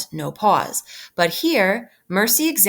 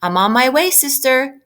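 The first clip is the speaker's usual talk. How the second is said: 1 eager call; 6 semitones higher, 5 dB louder than usual. Acted. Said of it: "watch how I do it on this line".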